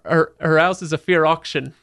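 rough stab at South Yorkshire, dropped H; attempted Yorkshire accent. Quoting local gossip about a housewife, attempted Yorkshire accent. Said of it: "I can't do the accent".

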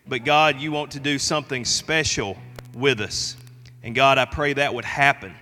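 earnest, measured prayer voice. Acted. Pastor leads opening prayer.

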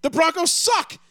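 high, loud laughing brag; cocky laugh-shout at a friend's teasing; laughing boast. Real, not acted. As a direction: crow it through laughter. Laughing defiant hot take.

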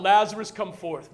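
mild retold call. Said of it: "Jesus yelled out".

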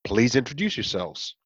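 raspy voice. Pretend. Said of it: "with a very raspy voice saying".

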